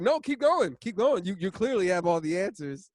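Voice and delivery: sarcastic foreman. Retold or imitated. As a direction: needle the know-it-all, loud and high. Foreman repeats mocking.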